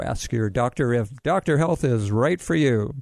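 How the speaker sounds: put-on bright old radio pitchman; cheerful mock ad-man opening; chipper 1950s ad. Host parodies ad copy.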